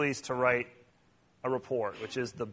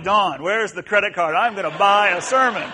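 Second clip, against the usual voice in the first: mock desperate plea; 5 semitones higher, 10 dB louder than usual. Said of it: "last night I'm like".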